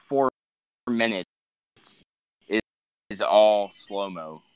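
slowed down, laggy call audio; stretched out like a lagging stream. Real, not acted. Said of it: "you were going slow-mo there".

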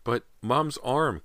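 put-on high, drawn-out girl's plea; protesting. A narrator's reading. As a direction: protest slowly, urgently to your father. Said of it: "Callie protested".

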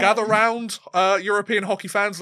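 put-on cosy storyteller gathering the kids; story time voice, drawing them in; hushed creepy legend telling. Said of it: "get ready for a story".

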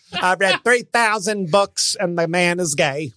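lightly voiced slow Cat Williams boast; a hint of Cat Williams, slow and sure; mild slow Cat Williams impression; Cat Williams imitation. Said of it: "Consider this the Cat Williams segment".

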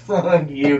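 cocky. Shown as a demonstration. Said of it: "kind of voice".

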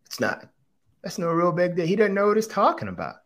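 put-on high, animated and dismissive, talking the kid up; emphatic reassurance. Dad reassuring his daughter about the classmate, animated and high. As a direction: brush the critic off cheerfully for her.

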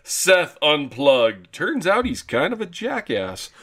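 distorted mic sound; warped slowed-down mic voice; voice changer. Real, not acted. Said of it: "sounds like you have a voice changer".

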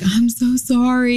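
high, slow apologetic plea; lightly voiced remorseful owner; apologetic friend. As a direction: mimic her drawn-out sorry. Friend apologizing after dog bite.

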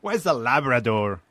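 put-on slow, puzzled Mexican-accented stoner. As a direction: ask slowly with a Mexican accent. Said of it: "Can you do a Mexican accent?".

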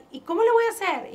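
high, loud panicked question; alarmed cry of how will I manage. Retold or imitated. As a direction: voice her old panic. Panicked retold self-question.

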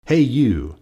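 loud, high challenging call; grouchy call. A narrator's reading. Grouchy ladybug challenges an animal.

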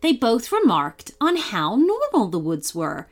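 put-on lively storybook reading for kids; bright children's story read; story narration. A narrator's reading. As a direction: tell it like a bedtime story. Reads a kids' story aloud.

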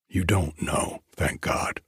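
stricken, falling to a whisper; broken, whispered thank God; in shock. Acted. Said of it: "said the stricken voice".

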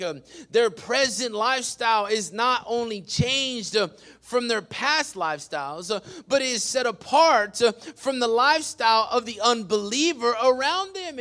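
forceful preacher's cadence; preaching. Real, not acted. Pastor urging the church to be set apart, preaching. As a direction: punch the key words like a preacher.

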